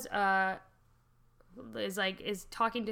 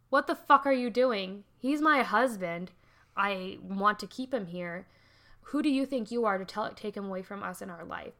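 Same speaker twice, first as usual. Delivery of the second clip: mock angry wife; 3 dB louder than usual. Wife confronting Aguilar.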